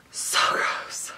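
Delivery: whispered in disgust, barely voiced; a hushed, grossed-out whisper. Real, not acted. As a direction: breathe it out like it makes you sick. Disgusted at the dirty closet.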